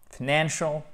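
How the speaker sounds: FINANCIAL as "f'NAN-shul"; light schwa opening, stress on NAN; reduced first vowel. Shown as a demonstration. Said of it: "un simple E atténué".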